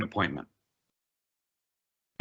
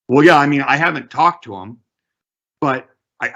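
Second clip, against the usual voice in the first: higher, hesitant seller; a lightly voiced unsure seller; seller's voice; 4 semitones higher, 4 dB louder than usual. Seller defending the figure to the agent, lightly voiced.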